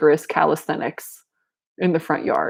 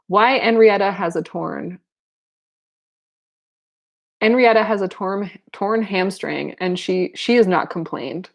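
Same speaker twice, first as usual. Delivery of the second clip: French accent. Shown as a demonstration. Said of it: "I can't do this French accent".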